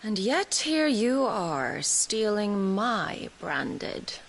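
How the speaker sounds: slow, drawn-out threat; slow menacing taunt. Acted. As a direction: stretch each word to make him squirm. Villainess taunts Cid.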